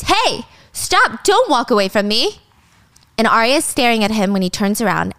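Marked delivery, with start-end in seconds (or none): 0.0-2.4 mild retold scream. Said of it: "she screams".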